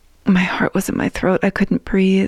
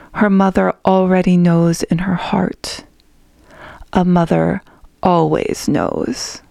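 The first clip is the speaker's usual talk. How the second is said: soft and knowing. Acted. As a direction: soothe her with quiet certainty. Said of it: "Cher said softly".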